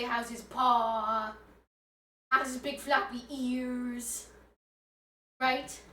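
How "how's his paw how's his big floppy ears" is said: mock fussing. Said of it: "They say".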